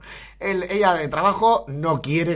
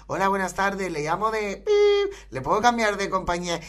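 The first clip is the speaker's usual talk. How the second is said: telemarketer voice; 4 semitones higher than usual. Pretend. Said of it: "con quien sea".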